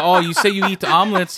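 high, loud laughing voice; can barely talk for laughing; laughing hard. Real, not acted. Laughing retelling reporter.

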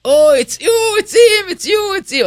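very high, loud squeals of recognition; excited crowd voices. Retold or imitated. Lowe's staff surrounding the speaker, loud excited squeals. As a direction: mimic a crowd thrilled to spot him.

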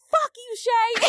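high, loud mock outburst at her son; mock angry. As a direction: snap at him, half laughing. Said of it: "And I'm like".

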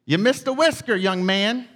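lightly voiced old-timer, insisting; older gentleman. Older stranger repeats it to baffled young man, lightly imitated old gentleman. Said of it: "this older gentleman".

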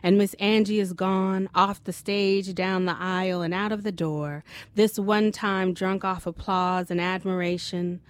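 measured, even literary reading; story narration. A narrator's reading. Reads her short story aloud.

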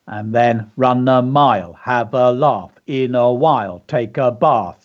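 "run a mile" and the rest in even, separate beats; measured count-like rhythm on each syllable; stressing the beats. Shown as a demonstration. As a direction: tap out "take a bath" syllable by syllable. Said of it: "You can hear the beats there".

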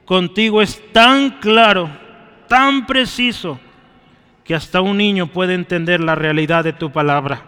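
earnest pastor's closing prayer. Acted. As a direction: pray aloud for the congregation, fervent.

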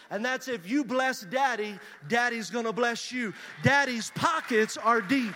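loud, emphatic preacher delivery; preaching. Real, not acted. Preacher telling congregation to bless Daddy, preaching. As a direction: drive the point home to the congregation.

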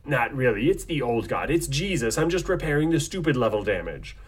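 lightly put-on smug guru voice; fake Neo enlightened voice. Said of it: "fake Neo enlightened voice".

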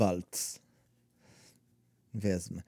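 put-on German accent. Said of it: "the German".

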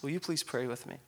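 usual speaking voice

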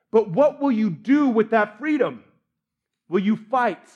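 rousing commander's address, measured and emphatic; rally the troops with weighty pauses; forceful battle speech. Acted. Wallace addresses his men before battle, forceful rallying speech. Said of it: "force that Wallace did".

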